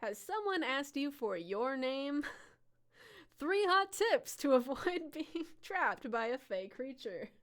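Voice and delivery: slow anchor voice through laughter; giggly mock newsreader; news reporter voice. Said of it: "someone's gotta tell the news".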